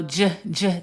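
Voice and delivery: "j" voiced as the English juh sound. Shown as a demonstration. Teacher shows the sound Spanish lacks, "j" as juh. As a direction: isolate the "j" consonant as juh, said twice. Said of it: "sound in Spanish".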